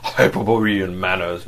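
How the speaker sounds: husky and defensive; lightly husky protest; husky defence. Acted. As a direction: defend himself hoarsely, eyes down. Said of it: "defended himself huskily".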